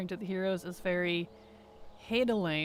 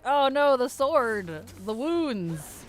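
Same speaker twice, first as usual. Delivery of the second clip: hammed-up dwarf in alarm, louder and higher; Magni impression; 3 semitones higher, 4 dB louder, slower than usual. Streamer quoting Magni's cries about the sword, mock alarm. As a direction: wail it like a distraught dwarf king. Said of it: "was Magni being like".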